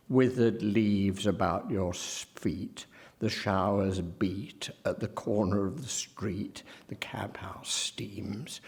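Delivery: softly recited lines, dropping away at the end; hushed finish to a verse quotation; quoted verse. Shown as a demonstration. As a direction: dwell on the ee rhymes as you quote. Quotes verse to show the vowel.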